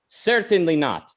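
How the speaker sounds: imitated Russian accent, falling at the end; Ayn Rand's accent. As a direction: put on a Russian accent for a firm refusal. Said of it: "I don't mean to mock her accent".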